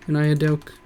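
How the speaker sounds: "doke" slurred as one word; slurred dark oak. Real, not acted. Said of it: "uh, dark".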